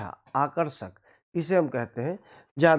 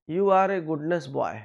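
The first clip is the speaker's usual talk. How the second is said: slow wrong example; much slower than usual. Shown as a demonstration. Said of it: "नहीं होगा".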